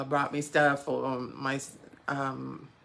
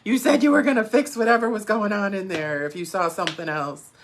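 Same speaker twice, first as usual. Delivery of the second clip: retold fury; 5 semitones higher, 5 dB louder than usual. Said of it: "And I'm just furious".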